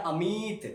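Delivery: अमित with the i held long. Shown as a demonstration. Teacher repeats the big matra word, long i. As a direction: press and lengthen the i in अमित. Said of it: "भारी आवाज़ में बोलेंगे".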